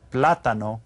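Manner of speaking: "Plátano" stressed on PLA; stress on first syllable. Shown as a demonstration. Teacher pointing out the accent mark, stress on first syllable. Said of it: "it's got the accent there".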